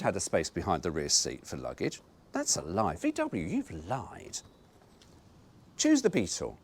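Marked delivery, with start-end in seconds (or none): 2.3-4.4 mock reproach. Real, not acted. Scolding the carmaker.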